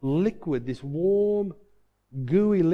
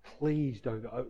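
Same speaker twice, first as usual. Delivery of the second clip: soft, drawn-out begging, retold; hushed, understated desperation; desperate plea; 2 semitones lower, 5 dB quieter, much slower than usual. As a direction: plead quietly and slowly with God. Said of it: "it was a desperation".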